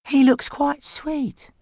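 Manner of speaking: high, slow teasing; teen girl voice. Acted. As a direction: coo that he's sweet. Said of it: "said Kerry".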